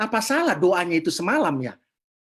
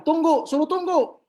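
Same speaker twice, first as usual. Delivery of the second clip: suruhan bernada tinggi; perintah tegas; 9 semitones higher, 4 dB louder than usual. Retold or imitated. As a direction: menyuruh menunggu dengan suara naik. Menyahut panggilan, menyuruh menunggu. (perintah tegas bernada tinggi)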